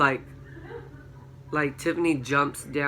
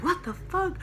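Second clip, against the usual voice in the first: shrieked very high, then slower and still high; retold scared scream; 6 semitones higher than usual. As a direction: squeal it in shock like you're reliving the moment. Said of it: "we, like, all scream".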